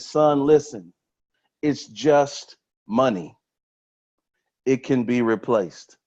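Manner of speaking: slow, deliberate reassurance with long pauses; reassuring father. Retold or imitated. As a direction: gently put the son at ease, retelling a father's words. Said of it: "He reassured his son".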